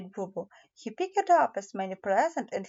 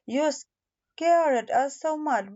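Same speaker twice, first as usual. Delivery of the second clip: worried mother; 4 semitones higher, slower than usual. Acted. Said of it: "it was his mommy".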